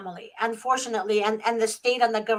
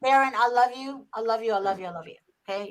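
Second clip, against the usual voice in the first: reassuring; 2 semitones lower, 4 dB quieter, faster than usual. Real, not acted. Calming an upset friend.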